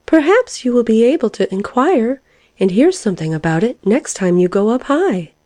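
high, tentative little caterpillar request; timid. A narrator's reading. Caterpillar asking the lark a favour, timidly. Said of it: "observed the caterpillar timidly".

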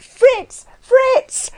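very high-pitched hail; calling out. A narrator's reading. Anna summoning the coachman, calling out. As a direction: call a name across the yard. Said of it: "she began to call".

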